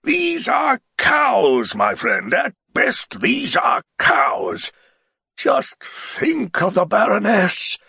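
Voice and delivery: slow, loud scornful shouting; the Baron raving about his Baroness, shouting. A narrator's reading. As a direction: bellow your contempt. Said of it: "he said loudly".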